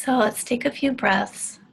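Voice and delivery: unhurried, with long restful pauses; spacious meditation-leader delivery, plenty of silence between phrases; guided meditation. Real, not acted. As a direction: ease listeners into a meditation, phrase by phrase.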